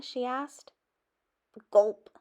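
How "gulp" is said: nervous gulp. A narrator's reading. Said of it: "I gulped".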